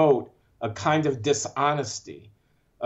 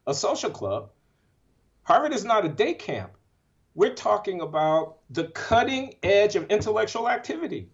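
emotional; 5 semitones higher than usual. Real, not acted. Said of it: "I'm sorry if I seem to be emotional".

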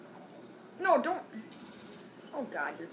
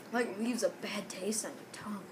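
whispering; 7 dB quieter than usual. Real, not acted. Grimacing after a mustard dose.

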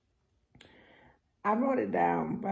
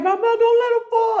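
much higher, louder, yelling through laughter; laughing shout; 12 dB louder than usual. Retold or imitated. Behind them on the ride, shouting to mom through laughter. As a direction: call out to mom while cracking up. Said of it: "And I'm like".

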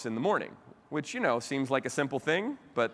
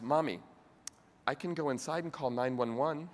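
child's calm offer, softly voiced; 4 dB quieter than usual. Daughter calmly offering her frazzled mother help, understated calm. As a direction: imitate an unruffled little girl, slightly softer. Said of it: "very calmly says".

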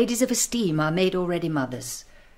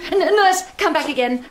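calling back; 8 semitones higher, 4 dB louder than usual. Acted. Mother calls nurse back.

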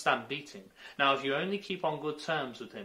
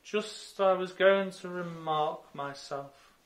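impatient Dormouse; 9 semitones higher, 8 dB louder, slower than usual. A narrator's reading. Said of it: "shook its head impatiently".

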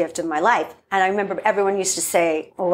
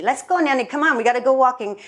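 coaxing caregiver; 5 semitones higher, faster than usual. Retold or imitated. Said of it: "Come on, Nanny".

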